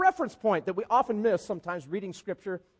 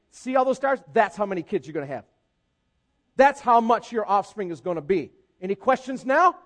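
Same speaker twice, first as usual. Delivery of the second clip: louder, cocky mock God; God with attitude; 6 dB louder than usual. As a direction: settle it with a smug flourish. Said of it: "God's got a little attitude going".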